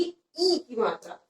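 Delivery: ई held long and leaned on; stress on ई. Shown as a demonstration. Teacher introducing the long vowel, stressing ई. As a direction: put firm weight on a lengthened ई. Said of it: "मैं कैसे जोर दे".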